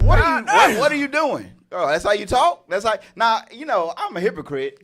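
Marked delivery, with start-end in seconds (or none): 0.0-2.7 higher, louder outraged dad; mock angry parent. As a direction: bust in demanding answers. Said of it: "I was like".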